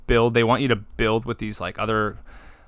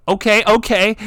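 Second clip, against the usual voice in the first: high, loud, laughing excitement; loud squeal of a sudden comeback; imitated excitement; 10 semitones higher, 7 dB louder than usual. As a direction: mimic a player suddenly fired up.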